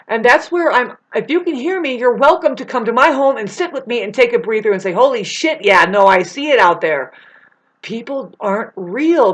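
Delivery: real frustration spilling into a rant; irate rant. Real, not acted. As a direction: vent it, fed up and heated. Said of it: "irate and, and angry".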